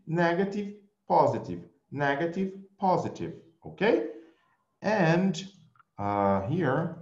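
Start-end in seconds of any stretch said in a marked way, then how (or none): 0.1-3.3 Negative rising, positive falling; sing-song Negative up, positive down; teacher contrasting the two tunes; rise then fall contrast. Shown as a demonstration. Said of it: "You see?".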